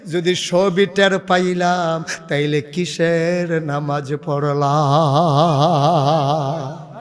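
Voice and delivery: slow lament with long wavering endings; half-sing it as a sorrowful plea; tearful lament. Acted. Husband explains his prayer to his wife, tearful chanted lament. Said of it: "চোখের পানি ছাইরা দিয়া কয়".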